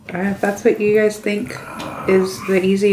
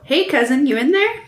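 spider clicks; 7 semitones higher, 3 dB louder than usual. Acted. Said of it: "make spider clicks that go".

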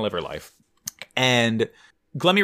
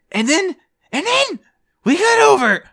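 dramatic announcer; 6 dB louder than usual. Real, not acted. Dramatic scene cut.

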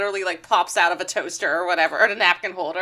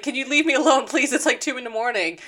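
exasperated plea; 4 semitones higher than usual. Retold or imitated. Retold nagging plea at night.

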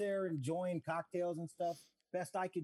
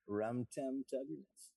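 easygoing pep talk, unhurried; Matthew McConaughey impression; 4 semitones lower than usual. Alarm clock cheers up a stoner, lightly done McConaughey. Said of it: "Matthew McConaughey's voice".

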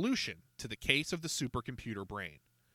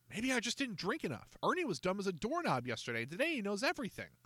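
put-on high, hopeful kid talking himself round; a kid clinging to hope; doubting boy Jacob; 9 semitones higher than usual. A narrator's reading. Jacob to Encyclopedia, high and hopeful.

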